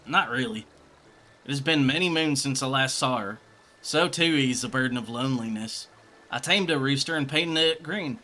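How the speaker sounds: put-on a cocky swordsman in a mild country accent. Gilgamesh introduces himself to the party in a country accent. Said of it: "country accent was the best accent for old Gilgi".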